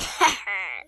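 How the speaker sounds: short evil cackle; mock-evil laugh; villain laugh. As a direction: cap the threat with a short cackle. Villain laughs after threat.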